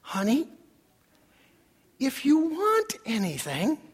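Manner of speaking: mild mock-sweet husband; lightly acted coaxing tenderness; sweetly. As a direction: offer it sweetly to your wife. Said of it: "So he sweetly says".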